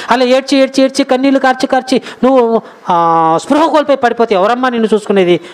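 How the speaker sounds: imitating a husband fretting over his wife; consoling husband. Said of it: "ఓదారుస్తున్నాడు, ఓదార్చి ఏమంటున్నాడంటే". (లాలిస్తూ ఓదార్చే భర్త అనుకరణ)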